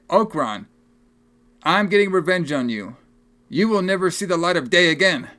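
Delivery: lightly hammed-up threat with pauses between phrases; mock-dramatic declaration; vow of revenge. Voicing the film's vow of revenge.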